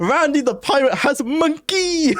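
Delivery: helpless high laughing read, slow; laughing while reading. Real, not acted. Player reading badly translated pirate quest, cracking up. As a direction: squeeze the words out through real laughter.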